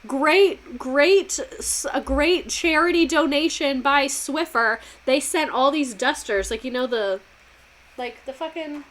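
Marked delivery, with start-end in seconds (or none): 0.1-6.5 mock Biden ad. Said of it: "he'd be like".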